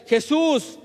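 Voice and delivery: high, loud, slow plea, drawn out; crying out. Retold or imitated. Blind Bartimeo crying out to passing Jesus, loud slow plea. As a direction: call to Jesus across the crowd, stretching every word. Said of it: "a gritar es".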